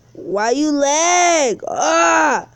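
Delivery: a drawn-out yell at the lagging game; slow down and shout it at the screen; frustrated shout. Real, not acted. Streamer yelling at his lagging game, slow shout.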